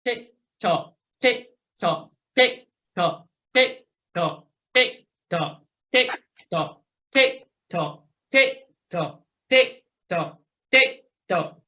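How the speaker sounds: brisk, even metronome tick-tock; hundred-cadence count. Shown as a demonstration. Coach takes riders up to a hundred, steady brisk count. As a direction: keep a regular beat at a moderate clip. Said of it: "go up to a hundred".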